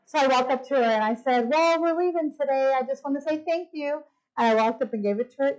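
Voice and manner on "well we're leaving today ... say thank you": high, sing-song courtesy; polite sweetness. Retold or imitated. Thanking the mean desk lady on leaving, sweetly polite. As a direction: lift the voice into a nice thank-you.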